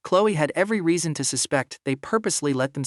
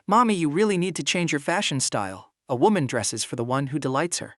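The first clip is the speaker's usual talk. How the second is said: put-on little girl voice; 3 semitones higher than usual. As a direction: chirp it like a cheeky toddler. Little daughter teasing her mother.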